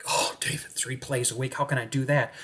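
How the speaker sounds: hushed mock-whiny student; softly put-on protest; whiny objection. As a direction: imitate a daunted student complaining softly. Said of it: "read three plays a week".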